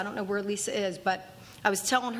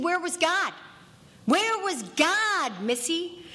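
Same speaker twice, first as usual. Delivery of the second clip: stern scolding; 9 semitones higher, slower than usual. Retold or imitated. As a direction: press her like a tough sponsor. Virgil scolding her, voiced.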